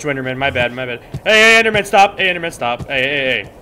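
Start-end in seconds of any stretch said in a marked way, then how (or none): 1.2-3.5 much higher, louder frantic calls; panicked shouting. Real, not acted. Gamer pleads with attacking Enderman, panicked shouts. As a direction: yell at it to stop, panicking.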